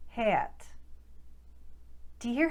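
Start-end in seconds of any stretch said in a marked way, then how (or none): 0.1-0.7 Boston "cat" with eh sliding off-glide; Boston accent. Shown as a demonstration. Coach demonstrates Boston gliding short a. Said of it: "would become".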